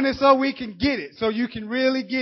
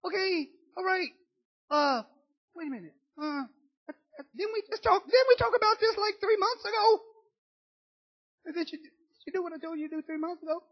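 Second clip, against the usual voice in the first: mock weary counselor; 4 semitones higher, 9 dB quieter, faster than usual. Counselor voiced to a client.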